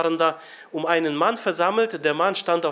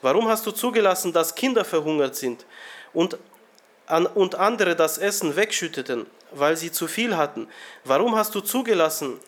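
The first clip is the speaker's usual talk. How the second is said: retold yell. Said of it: "Und dann schrie er".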